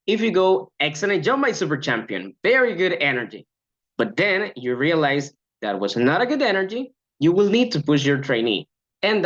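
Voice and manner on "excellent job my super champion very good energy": overpraise. Shown as a demonstration. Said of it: "avoid overpraising trainees".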